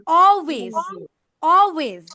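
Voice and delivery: "always" with the L left silent. Shown as a demonstration. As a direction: say "always" as aw-ways, no L sound. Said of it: "L should be silent here". ("always"-এ L অনুচ্চারিত)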